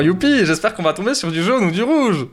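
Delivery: fake, sing-song cheer climbing at the end; mock enthusiasm. Vlogger hoping sarcastically for yellow or red, mock enthusiasm. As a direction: feign delight at the prospect.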